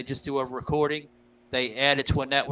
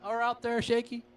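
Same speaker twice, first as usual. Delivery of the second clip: playful call-out; 9 semitones higher than usual. Real, not acted. Calling a question to Shaky.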